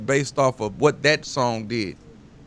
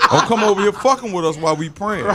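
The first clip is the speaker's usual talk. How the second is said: laughing quote; 6 semitones higher, 5 dB louder than usual. Retold or imitated. Quoting his daughter, laughing.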